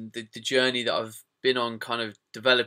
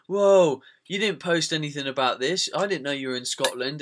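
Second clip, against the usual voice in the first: mock surprise; 2 semitones higher than usual. Followers commenting on a missed Scotland tour, mock surprise. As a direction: imitate a taken-aback follower.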